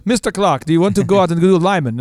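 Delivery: lightly imitated Trinidadian accent; horrible Trinidadian accent. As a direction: mimic a Trinidadian escort, not very convincingly. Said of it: "I'm probably doing a horrible accent".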